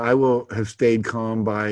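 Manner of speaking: a slow, deliberate read of "I will have stayed calm by". Shown as a demonstration. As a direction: spell out each word of the goal slowly. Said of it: "again, put the date there".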